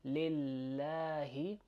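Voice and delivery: lillahi with a front, thin a; lillahi, slow with a light laa. Shown as a demonstration. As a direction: draw out "lillahi", the a as in cat. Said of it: "which is what we're saying here".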